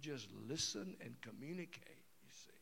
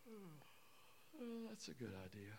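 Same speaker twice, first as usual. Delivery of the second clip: mock sleepy wife, trailing off; bored wife; 8 dB quieter, slower than usual. Wife yawns at husband's steak idea, sleepy. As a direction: play the yawning uninterested wife.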